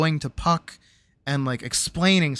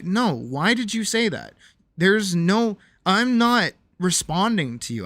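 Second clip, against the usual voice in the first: higher, exasperated retold protest; 6 semitones higher, slower than usual. Retelling car argument with partner, exasperated. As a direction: push back as if mid-argument. Acted quarrel, defending himself in car.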